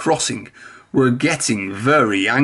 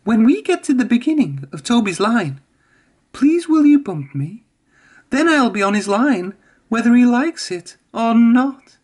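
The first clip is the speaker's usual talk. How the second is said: much higher, sly little engine voice; scheming Mavis; 9 semitones higher than usual. A narrator's reading. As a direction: plot with the trucks. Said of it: "She said to the troublesome trucks".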